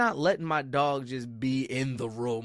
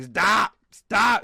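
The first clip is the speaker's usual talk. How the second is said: retold yell; 6 semitones higher, 6 dB louder than usual. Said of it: "And she's like".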